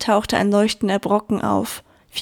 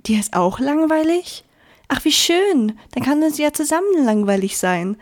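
higher, happy surprise; the lonely sun lighting up with joy; glad, eager sun; delighted; 4 semitones higher than usual. Acted. Lonely sun finds a friend.

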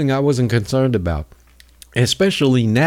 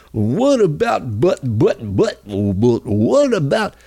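mock caller. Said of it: "I'll tell you what the call will be".

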